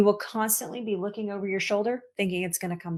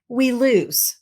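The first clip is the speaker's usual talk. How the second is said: ordinary delivery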